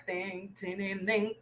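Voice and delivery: quiet sing-song dinging; soft ding-ding. Pretend. Teacher hinting at the answer letter, soft dinging. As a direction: imitate a little bell, softly.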